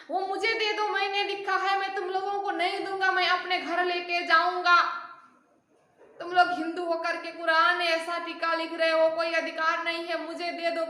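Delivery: bully them into handing it over; threatening demand. Retold or imitated. Ibrahim bullying the poor devotees, threatening demand. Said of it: "उसने तो डर भी दिखाया, धमका भी लिया".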